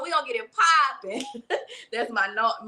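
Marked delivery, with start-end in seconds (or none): 0.0-1.2 put-on New Orleans twang, lightly done; a playful stab at a New Orleans accent. Shown as a demonstration. Host hyping up the chat, in a light New Orleans accent. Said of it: "my New Orleans accent".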